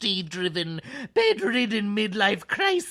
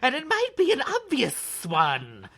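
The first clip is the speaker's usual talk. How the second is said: drawn-out s like a snake; 4 semitones higher than usual. Acted. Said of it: "Should I talk like a snake the whole time?".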